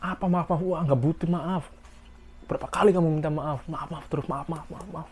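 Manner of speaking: high, mocking maaf repeated; mock scolding. Senior mocking a junior's apologies, high sneering scold. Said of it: "Kalian dimarahin lagi".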